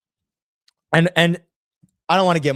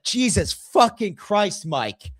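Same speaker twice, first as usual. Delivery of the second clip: exasperated outburst; 4 semitones higher, much slower than usual. Retold or imitated. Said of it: "I say this out loud and loudly".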